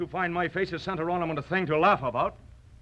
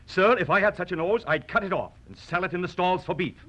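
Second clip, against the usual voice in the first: aggressive; faster than usual. Acted. Swordsman mocks the nose aggressively, playing the insulter. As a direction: bark it out quickly like a picked fight.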